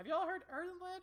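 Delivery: loud, very high shout directed downward. A kobold calls out to the other kobolds below, shouting down to them. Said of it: "He kind of shouts down".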